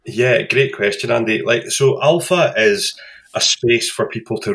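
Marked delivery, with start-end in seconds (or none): none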